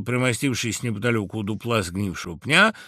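plain reading voice

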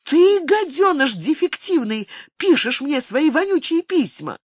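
high-pitched, furious accusation; outraged. A narrator's reading. Venus turns on the teenager, shrill outrage. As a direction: rage at the boy who wrote the letters. Venus berates the letter writer.

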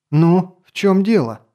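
sharp impatient question; impatient demand. Acted. Impatient lady demanding answer.

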